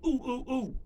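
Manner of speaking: high, eager little oohs; Arnold Horshack. Acted. What's going on in his head, Horshack-style oohs. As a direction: squeal it like an excited sitcom schoolboy. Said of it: "what's going on in my head".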